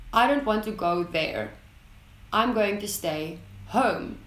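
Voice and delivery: final statement falling down; falling statement intonation. Shown as a demonstration. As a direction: let each sentence drop at the end. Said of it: "the falling tone is used as a form of finalization".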